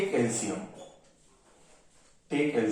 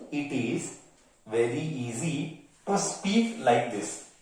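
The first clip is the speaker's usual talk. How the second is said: slow, drawn-out repeat; 4 dB quieter, slower than usual. Shown as a demonstration. Teacher to class, repeating the point slowly. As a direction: stretch each word out slowly.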